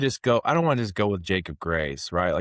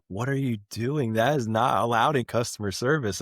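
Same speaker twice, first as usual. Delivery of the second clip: higher-pitched imitation of a scolding coworker; mock-appalled objection, pitched up; scandalized protest; 4 semitones higher than usual. Customer service rep objecting to her boss's call, scandalized.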